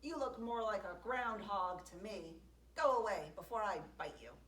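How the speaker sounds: loud angry threat; yelling. Acted. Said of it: "had never heard such yelling".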